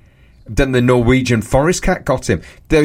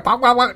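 imitated puppy yap; 10 semitones higher than usual. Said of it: "Like a yap".

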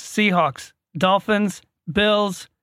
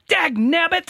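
high cartoon prospector yell; cartoon cowboy cussing, pitched up; Yosemite Sam; 10 semitones higher, slower than usual. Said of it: "he talks like Yosemite Sam".

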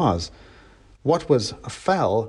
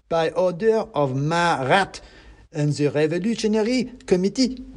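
mouse revolutionary; 6 semitones higher than usual. A narrator's reading. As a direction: proclaim it as a tiny committee official. Revolutionary mouse proclaims an order.

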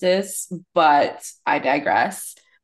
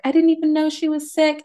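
imitating crying woman; 11 semitones higher than usual. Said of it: "She's just like".

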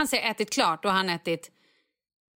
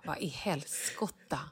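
stunned disbelief; 5 semitones lower, 11 dB quieter, slower than usual. Retold or imitated. Mother reacting to the missing sausages.

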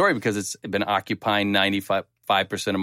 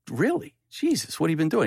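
surprised; 5 semitones higher than usual. Retold or imitated. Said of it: "And I was like".

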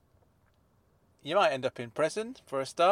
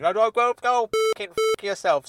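furious yell; 5 semitones higher, 4 dB louder than usual. Acted. Furious swearing at host.

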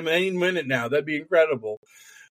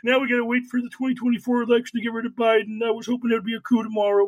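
mock disappointment; 6 semitones higher, faster than usual. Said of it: "big sad".

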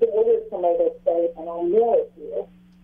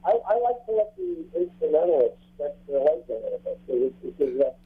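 underwater; 3 semitones lower than usual. Real, not acted. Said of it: "we can't understand you anymore".

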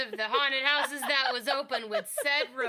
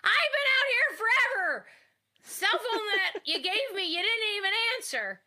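high loud impatient driver voice; gruff tow truck driver; 8 semitones higher, 5 dB louder than usual. Acted. Tow truck driver scolding the stranded nurse, high loud impatient voice. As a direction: complain you waited forever.

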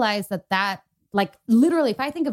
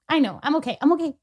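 higher voice, holding back tears; real tearful; 4 semitones higher, 4 dB louder than usual. Real, not acted. Speaker tearing up on air before listeners, real tearfulness. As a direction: reassure listeners while choking up. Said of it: "Guys, I never cry on this".

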